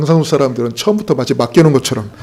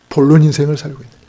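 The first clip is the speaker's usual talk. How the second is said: 본론 punched, the question quicker; stress on 본론; 3 dB louder, faster than usual. Shown as a demonstration. Preacher contrasting main life with intro life. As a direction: land hard on 본론, brisk pace. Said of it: "우리는 지금 어떤 인생을 살고 있냐?".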